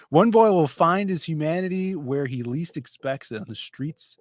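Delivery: hammed-up story teaser; dramatic pitch read. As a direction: read it like a big teaser, then hush the last phrase.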